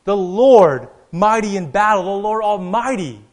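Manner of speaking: loud, high proclamation, hammering each title; triumphant shout. Retold or imitated. David and the procession answering the watchman, triumphant shout. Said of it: "all in a loud, triumphant voice, shout out".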